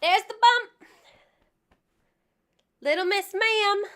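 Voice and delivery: breathless, talking between breaths. Real, not acted. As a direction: speak winded and short of air. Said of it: "This is why I'm out of breath".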